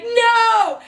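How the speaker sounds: high, drawn-out cry; mock wail of protest; retold panicked refusal.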